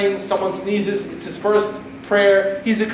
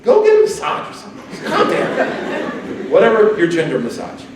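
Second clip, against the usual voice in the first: teasing mockery; 3 semitones higher than usual. Teasing the insecure critics.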